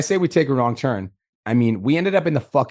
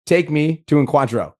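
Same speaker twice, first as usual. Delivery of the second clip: slow for a foreigner; 3 semitones higher, 4 dB louder, slower than usual. Retold or imitated. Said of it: "and I'm like".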